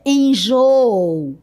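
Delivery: "enjoo" with a long, drawn-out final double o; hiatus oo. Shown as a demonstration. Teacher giving the example word, drawn-out hiatus. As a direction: stretch the double o ending of "enjoo" slowly. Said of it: "aqui como no exemplo".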